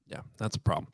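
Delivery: usual speaking voice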